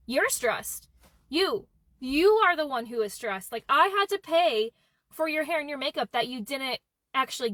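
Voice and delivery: incredulous retort, leaning hard on YOU; retold outraged comeback with big swooping emphasis; indignant disbelief. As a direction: throw it back at them, slowly and pointedly. Acted indignant retort to friend.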